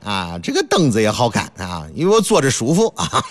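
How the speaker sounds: lightly voiced guest piling on compliments; gushing guest. Tired visitor praising the host's garden to earn a rest, lightly hammed-up flattery. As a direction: play a visitor fumbling for polite praise. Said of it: "赏完美景之后还得夸两句".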